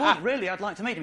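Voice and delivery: hurried, insistent plea; fast pleading. Retold or imitated. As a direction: rush it, begging to be let in. Pleading with bouncer after rebuff.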